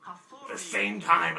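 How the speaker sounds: hammed-up suspense; dramatic build. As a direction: stretch it out for drama. Escalating danger.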